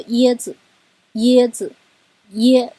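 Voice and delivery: 椰子 with high level 椰, light 子; loud teaching demo of 椰子; neutral tone demo. Shown as a demonstration. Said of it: "椰是一声呢".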